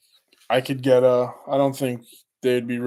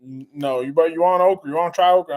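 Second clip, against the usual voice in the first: imitating southern accent; 3 dB louder than usual. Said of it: "The way she sounded".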